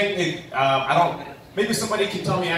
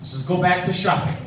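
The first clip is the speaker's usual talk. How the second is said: higher, louder strained-patience mom voice; exasperated mom; 7 semitones higher, 3 dB louder than usual. Retold or imitated. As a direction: mom pleading through gritted teeth. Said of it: "she's like".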